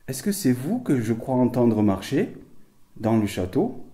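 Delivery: loud, slow call to the spirits. Real, not acted. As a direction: call out into the castle. Calling out to spirits.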